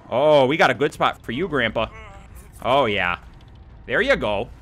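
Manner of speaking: mock Canadian lilt; Canadian accent. Player taunting Grandpa on the hook, Canadian accent. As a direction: put on a light Canadian accent. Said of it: "talking like a Canadian now".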